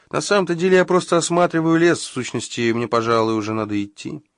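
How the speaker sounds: fast nervous high excuse; hurried excuse. Acted. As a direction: rush the words out nervously. Fritti nervously excuses himself.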